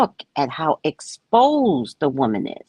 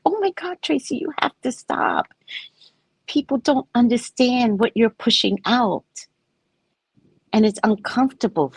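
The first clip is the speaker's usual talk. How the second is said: scolding friend voice; 6 semitones higher than usual. Retold or imitated. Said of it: "And I was like".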